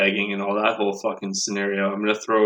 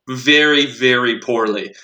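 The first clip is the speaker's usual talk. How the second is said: sarcastic retort; slower than usual. Retold or imitated.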